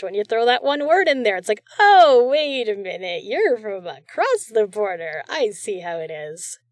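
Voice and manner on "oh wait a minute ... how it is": loud, slow, teasing "oh wait a minute"; mock realization. Host teasing a Canadian artist about sorry, in mock surprise. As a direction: playfully catch them out, drawn out.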